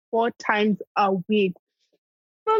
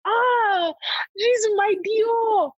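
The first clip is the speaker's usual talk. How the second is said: diva voice; 12 semitones higher, much slower than usual. Pretend. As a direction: show off the designer piece like a diva. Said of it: "sometimes I'm a diva".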